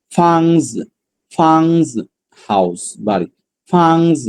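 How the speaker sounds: ফাংস held high and level like a Mandarin first tone; flat tone demo. Shown as a demonstration. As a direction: sing ফাংস on one high flat pitch. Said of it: "এভাবে সুন্দর flat".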